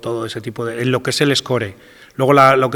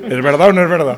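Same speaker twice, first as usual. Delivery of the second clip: laughing through the question, louder; asking while still laughing; 7 semitones higher, 7 dB louder than usual. Real, not acted. Composer laughing as he teases the panel about his catchphrase.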